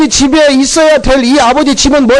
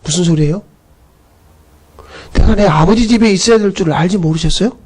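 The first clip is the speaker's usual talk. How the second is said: 태연한 대답; 6 semitones lower than usual. Retold or imitated. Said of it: "예수님은 태연하게".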